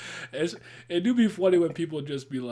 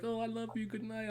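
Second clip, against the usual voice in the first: mock German speaker; 9 semitones higher, 7 dB quieter than usual. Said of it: "they angry".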